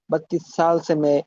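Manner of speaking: lisped s on সাল, tongue between the teeth; Virus's lisp. Retold or imitated. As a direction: imitate a lisping professor saying সাল সে. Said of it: "তার sound গুলো এরকম হয়". (সাল-এ জিভ দাঁতের মাঝে এনে নকল)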